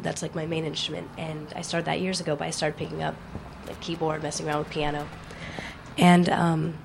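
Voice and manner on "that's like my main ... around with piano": losing her voice, hoarse; strained, hoarse, quiet talk. Real, not acted. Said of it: "sorry, I'm losing my voice".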